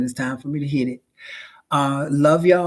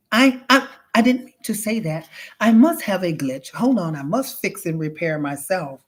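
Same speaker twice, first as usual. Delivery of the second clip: glitching robot; 2 semitones higher than usual. Acted. Robot covering up its slip, stuttering. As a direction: backpedal like a malfunctioning machine.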